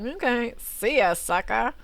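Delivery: lightly acted cheeky farewell; mock hit-and-run brush-off. Driver leaving a car she hit, mock breezy. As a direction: toss it off like a careless culprit. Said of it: "and then be like".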